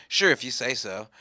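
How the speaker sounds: low, offhand shrug; noncommittal Jesus. Acted. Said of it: "Jesus was just like".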